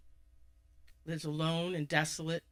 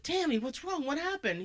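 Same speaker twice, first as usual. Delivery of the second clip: worried brother; 9 semitones higher than usual. Acted. Abe finds his sister crying.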